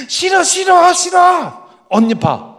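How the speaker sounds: dad imitating a child's shouted refusal; screaming little girl. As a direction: shriek no like a stubborn child. Youngest refusing loudly.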